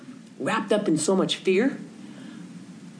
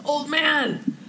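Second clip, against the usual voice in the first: much higher, slow, drawn-out call; yelling instructions; 10 semitones higher, slower than usual. Retold or imitated. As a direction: call out each word slowly to the old man. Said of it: "Martin yells at him".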